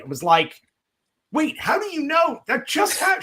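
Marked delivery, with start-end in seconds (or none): 1.3-3.2 much higher, startled outburst; imitating his stunned self, pitch flying up; retold shock. Hearing the neighbor already knew, a startled high outcry.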